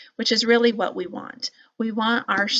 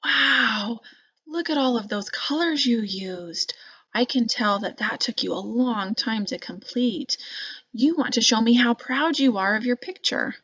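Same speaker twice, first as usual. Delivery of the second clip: lightly raised, warm encouraging voice; 3 semitones higher than usual. Shown as a demonstration. Teacher demonstrating encouragement for a child's picture, warm and interested. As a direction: notice the child's effort gently. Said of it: "I would say something like".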